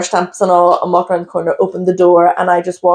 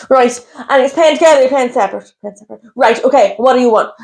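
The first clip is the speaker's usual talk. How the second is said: frantic server; 4 semitones higher than usual. Retold or imitated. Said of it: "It was all very frantic".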